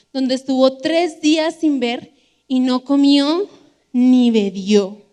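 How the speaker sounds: deliberate, projected Bible reading; emphatic scripture reading. Acted. Preacher reading of blinded Saul to the congregation, emphatic scripture reading. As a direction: read it out with weight, pausing between phrases.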